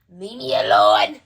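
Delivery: low, loud, slowed yell; angry yell. Acted. Yelling at nagging relative.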